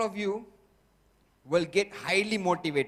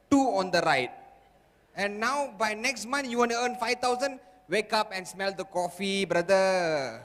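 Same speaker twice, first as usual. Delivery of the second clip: loud, high mocking put-down; scornful inner voice; 4 semitones higher, 3 dB louder than usual. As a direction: scoff at the goal as if it's ridiculous. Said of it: "What did the voice say?".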